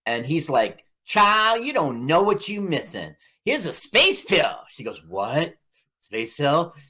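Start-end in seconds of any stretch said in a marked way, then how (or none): 1.0-4.5 lightly voiced sassy coaxing, higher at the start; a hint of a smooth-talking tempter; coaxing pusher. Acting out man offering space pill. 5.1-6.7 mild mock innocence, questioning rise; retold innocent woman. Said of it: "She's all innocent".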